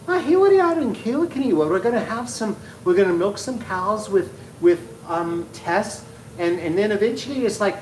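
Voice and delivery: hammed-up Irish accent drifting into Transylvanian; Irish turning Transylvanian. Shown as a demonstration. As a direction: start as an Irish farmer and slide into Count Dracula. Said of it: "anytime I start to do an accent, I eventually become Transylvanian".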